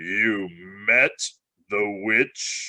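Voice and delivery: low, very slow, menacing growling undertone. Reading aloud a lion asking a boy about the witch: low voice with a threat of a growl. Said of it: "said Aslan in a low voice, which had the threat of a growl in it".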